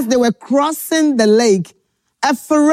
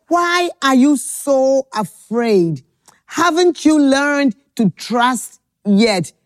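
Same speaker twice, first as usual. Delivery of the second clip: slow gentle question again. Acted. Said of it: "He said".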